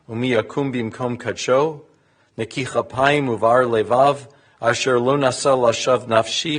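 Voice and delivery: formal, even Hebrew reading; psalm recitation. Real, not acted. Clergy recites a psalm of David in Hebrew, formal reading. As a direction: recite the psalm evenly, phrase by phrase.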